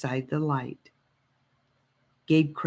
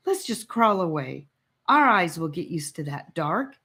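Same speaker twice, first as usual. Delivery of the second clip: unsure, scared; 4 semitones higher than usual. Acted. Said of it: "not sounding very sure of himself".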